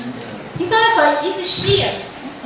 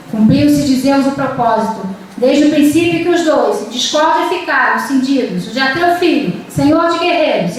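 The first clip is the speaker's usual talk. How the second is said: serious, measured recitation pausing at each caesura; stately reading of Homeric verse; epic poem reading. Shown as a demonstration. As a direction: read it like an epic, serious but not heavy. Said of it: "o tom épico é um tom imponente, não é pesado, mas é sério".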